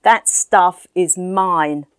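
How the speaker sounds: man in grey coat shouting back at the landlord. Acted. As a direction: yell it through the door, then spell out the threat. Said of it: "shouted back through the door".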